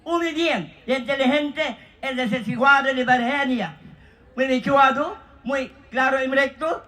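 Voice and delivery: Spanish-sounding patter in a mock Spanish accent. Host calls Spanish, answered with mock Spanish patter. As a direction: rattle off fake Spanish with a cheeky ending.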